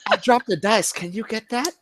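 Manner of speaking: lightly hammed-up Asian accent quoting the cheater; mock Asian accent. Telling the cheater story, imitating the opponent in a put-on Asian accent. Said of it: "I'll do it in my Asian voice too".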